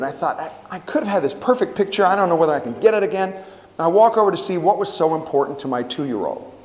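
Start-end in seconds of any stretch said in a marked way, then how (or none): 0.4-3.3 aggravated. Retold or imitated. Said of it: "I was aggravated".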